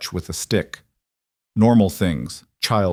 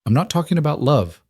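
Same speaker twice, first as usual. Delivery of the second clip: mildly tender reassurance, pitched higher; gentle; 7 semitones higher than usual. A narrator's reading. Rancher reassures widow about commitment, gentle voice. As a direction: reassure her with a light, gentle touch. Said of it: "Weston's voice was gentle".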